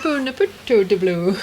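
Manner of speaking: mock Swedish chef gibberish; goofy Swedish chef babble. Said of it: "He didn't say it like the Swedish chef".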